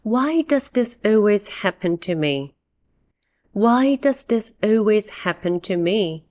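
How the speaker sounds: frustrated, tired complaint; dramatic frustration. Shown as a demonstration. English teacher models a rhetorical complaint, mildly dramatic. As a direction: let it out, expecting no answer. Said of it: "This is a dramatic question".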